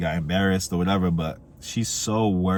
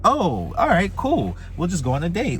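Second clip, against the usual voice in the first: much higher, eager imitation of his past self; mock eager self; 10 semitones higher than usual. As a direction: play your overexcited younger self, going too fast. Mocking his own overeager past self.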